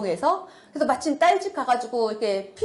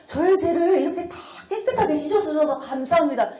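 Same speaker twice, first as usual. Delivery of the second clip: retold thanksgiving prayer; 4 semitones higher than usual. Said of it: "이 기도가 나오더라고요".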